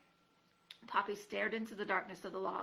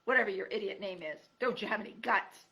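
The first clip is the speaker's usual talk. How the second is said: gruff cry; 6 dB louder than usual. Acted. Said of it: "Aerith cried".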